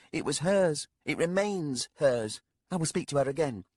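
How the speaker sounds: put-on a sharp-tongued young lady, needling the old man. Young lady voiced by narrator.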